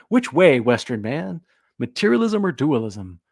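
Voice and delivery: hammed-up meme shout. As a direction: punch "which way" up like a rallying cry. Meme call, repeated louder.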